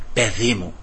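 soft, low, tender divine voice; voice of God. Retold or imitated. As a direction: speak as the Lord calling his child gently. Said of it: "τι γλυκιά φωνή που ήταν αυτή". (απαλή, χαμηλή φωνή του Θεού)

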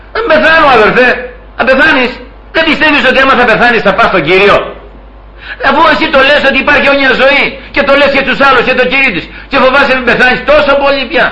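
high, pressing mock argument; exasperated remonstrance. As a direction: argue it high and fast, in disbelief. Acts out exasperated scolding of fearful believer. (αγανακτισμένη επίπληξη με ψηλή φωνή)

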